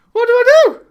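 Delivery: high, loud, laughing dismay; retold panic through laughter. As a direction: wail it helplessly, dissolving into laughter. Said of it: "and I'm thinking".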